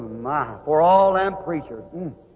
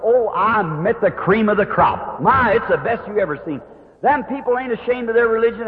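higher-pitched, enthusiastic retelling; happy; 5 semitones higher than usual. Retold or imitated. Husband tells his wife of the people, happily. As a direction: gush mildly about new friends. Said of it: "Why you sound so happy".

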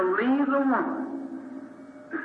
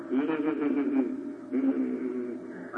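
imitated funny noise; 7 semitones lower, 5 dB quieter, much slower than usual. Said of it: "making a real funny noise ... like that".

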